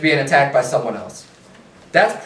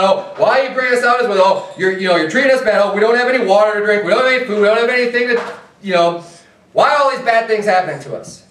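higher, quick mock whining; whiny complainer; 3 semitones higher, faster than usual. Preacher mocking the Israelites blaming Moses, whiny and higher. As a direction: ham up the grumbling Israelites.

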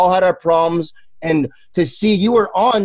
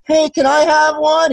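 put-on eager kid; 10 semitones higher than usual. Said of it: "He goes".

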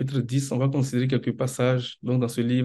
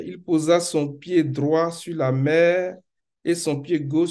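solemn scripture reading; 3 semitones higher than usual. Acted. Preacher reading Revelation to the congregation, solemn and emphatic. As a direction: read scripture out with measured, carrying weight.

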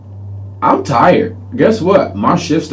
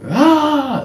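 demo yell. Shown as a demonstration. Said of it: "When I picture yelling, I picture like".

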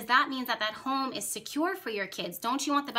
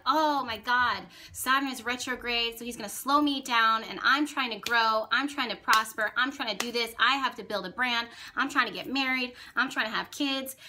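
mildly whiny imitation, reeling off grievances; mock moaning complaint. Mimicking the internet moaning about Saturn retrograde, mock complaint. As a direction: complain in a mocking run of mild groans. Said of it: "groan and moan and be like".

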